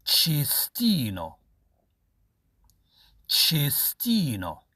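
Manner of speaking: each word stretched out very slowly; drawn out for the class to copy; slow model reading. Shown as a demonstration. Teacher models words for repetition. (نطق بطيء للتلاميذ)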